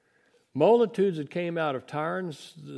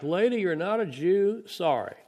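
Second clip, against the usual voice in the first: dismissive brush-off; 5 semitones higher, 4 dB louder than usual. Retold or imitated.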